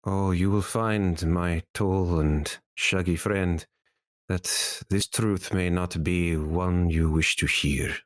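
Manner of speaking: lightly voiced formal sage; solemn sage. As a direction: address the party as a learned, solemn sage. GM voices sage introducing himself.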